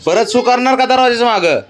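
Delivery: a parent's half-serious telling-off; mock-stern scolding. Real, not acted. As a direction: make him promise, stern but playful. Father scolds child about peeing.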